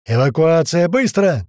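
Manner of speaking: loud, high urgent order; shouting. A narrator's reading. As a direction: shout to clear everyone out. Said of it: "крикнул Гера". (срочный крик об эвакуации)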